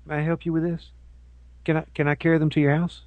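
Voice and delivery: quietly mocked groveling clerk; mock apologetic clerk. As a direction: grovel softly to the customer. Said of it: "and saying".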